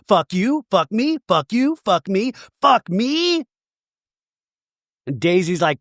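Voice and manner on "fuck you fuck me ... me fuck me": higher, rising back-and-forth parody; acting-class repetition exercise. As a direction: bat it to and fro like drama students. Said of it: "like a Sanford Meisner exercise in acting class".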